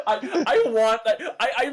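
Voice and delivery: talking through laughter; giggling while remembering the hat; laughing. Real, not acted. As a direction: laugh as you speak. Laughing mid-sentence.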